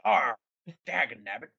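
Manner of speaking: grumpy pirate growl. Retold or imitated. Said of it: "did you just give Beethoven a pirate voice".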